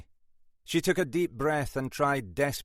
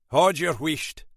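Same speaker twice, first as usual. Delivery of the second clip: stern Scottish hush; 7 semitones higher, 7 dB louder than usual. A narrator's reading. Inspector silencing his flustered sergeant, stern Scottish hush. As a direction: shut her up, firmly.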